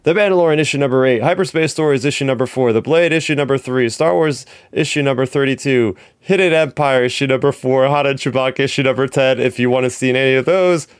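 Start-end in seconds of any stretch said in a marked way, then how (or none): 0.0-9.4 rapid list without a breath; all in one breath. Shown as a demonstration. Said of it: "I'm gonna try to do this in all one breath".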